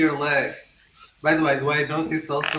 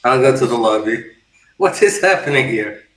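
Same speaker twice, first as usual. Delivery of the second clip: loud, hurried; 3 semitones lower, 7 dB louder than usual. Acted. Doctor startled by commotion.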